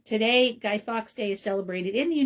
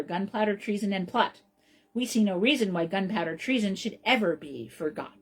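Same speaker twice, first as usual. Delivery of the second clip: recited rhyme. Shown as a demonstration. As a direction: recite it like a children's chant. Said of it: "Here it is".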